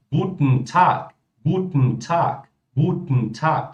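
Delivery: Guten Tag with guten cut to gutn; slow demo of Guten Tag with the en swallowed; swallowed ending. Shown as a demonstration. Teacher demonstrating to viewers how the en is swallowed. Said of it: "Olha só como é que é o guten Tag".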